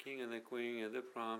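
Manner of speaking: King and the Queen of the Prom with of the reduced; linked phrase. Shown as a demonstration. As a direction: run the whole line together lightly. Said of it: "こんな感じですね". (of theを弱めて流れるように)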